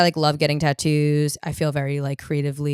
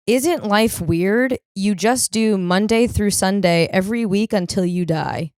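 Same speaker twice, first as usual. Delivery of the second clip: reading own note; 2 semitones higher, slower than usual. Shown as a demonstration. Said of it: "I wrote at eight forty-three".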